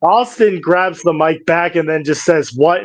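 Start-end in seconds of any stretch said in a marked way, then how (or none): 2.5-2.8 serious. Retold or imitated. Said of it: "in a serious voice".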